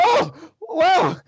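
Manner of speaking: high, loud gasp of wonder; a kid amazed at magic; boy thrilled by the tail illusion, high and loud; excited boy. Acted.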